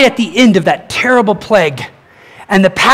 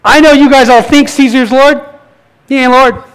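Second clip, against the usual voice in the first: defiant declaration; 4 semitones higher, 5 dB louder than usual. Retold or imitated. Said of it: "Here's what they were doing".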